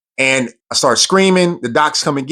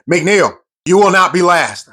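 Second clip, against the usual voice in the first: drill instructor yell; 5 semitones higher than usual. Retold or imitated. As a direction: refuse to let him fall behind. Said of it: "he's yelling next to me".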